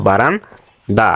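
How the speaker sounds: "বারান্দা" broken as "বারান-দা"; প্রমিত উচ্চারণ. Shown as a demonstration. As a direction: pause inside "বারান্দা", baran then da. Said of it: "এবং এটার উচ্চারণ". ("বারান্দা" ভেঙে বারান-দা উচ্চারণ)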